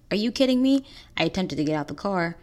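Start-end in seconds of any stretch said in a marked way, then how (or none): 0.1-0.8 outraged disbelief, higher and louder; indignant question pitched sharply up; incredulous. Retold or imitated. Woman retorting to the man who held her, incredulous. Retort to knife man's request.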